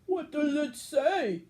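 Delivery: a giant impatient to hear his card; eager giant. A narrator's reading. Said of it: "asked the giant".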